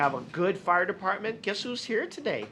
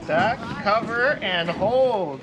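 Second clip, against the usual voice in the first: calling out; 6 dB louder, slower than usual. Real, not acted. Calling out drill commands.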